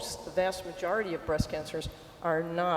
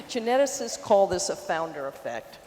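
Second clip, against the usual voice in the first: talking into shirt; 4 dB louder than usual. Real, not acted. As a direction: mouth close to a shirt collar mic. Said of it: "I have to talk into my shirt".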